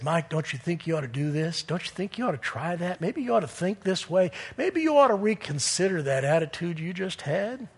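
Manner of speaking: hushed but still voiced, softly suggesting; quiet nudging, like an inner voice; imitated gentle whisper. God nudging the preacher in his heart, imitated soft whisper. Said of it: "what God does is he whispers".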